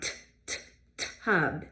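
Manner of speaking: "tub" with a front tapped t; tappy T. Shown as a demonstration. Teacher modelling the tappy sound. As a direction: tap the t in "tub". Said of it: "That's a tappy sound".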